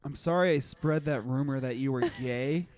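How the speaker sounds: put-on shout-out to an old victim, laughing; laughing mock apology. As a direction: apologize while cracking up. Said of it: "So I'll shout out".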